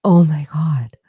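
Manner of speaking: imitating a stunned whispered oh my god; whispered shock. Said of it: "my immediate knee-jerk response was".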